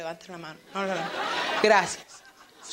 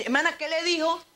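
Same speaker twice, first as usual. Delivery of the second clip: curious listener; 7 semitones higher than usual. Retold or imitated. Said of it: "usted me va a decir".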